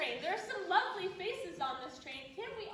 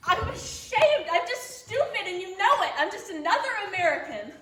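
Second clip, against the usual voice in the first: laughing through shame; 13 dB louder than usual. Acted. Heroine breaks down, laughing bitterly.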